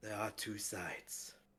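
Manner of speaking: soft sorrowful muttering under the breath. Standing over a corpse and bowing his head, the character speaks: muttered under breath. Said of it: "he mutters uh, under his breath".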